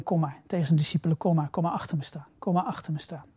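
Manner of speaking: soft, protective reassurance; reassuring. Acted. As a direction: gather them in quietly behind you. Jesus calls disciples behind him.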